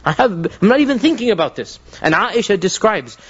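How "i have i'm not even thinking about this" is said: rebuking. Retold or imitated. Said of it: "He rebuked him".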